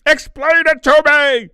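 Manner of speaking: high, loud furious demand; seething outrage. Acted. Furious owner demands the vet explain, high and loud. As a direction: yell at them in disbelief. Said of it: "seething with anger and frustration".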